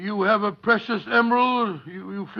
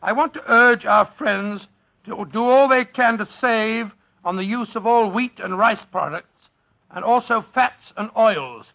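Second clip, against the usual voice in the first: sincere plea to listeners, slowing at the end; a hint of a heartfelt wartime appeal; earnest appeal. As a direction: urge the audience to share food. Public service appeal.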